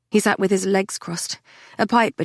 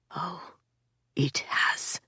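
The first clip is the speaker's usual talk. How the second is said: a touch of menace, whispered; said darkly; 2 semitones lower, 9 dB quieter, much slower than usual. A narrator's reading. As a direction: let it sink, dark and hushed. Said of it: "he said darkly".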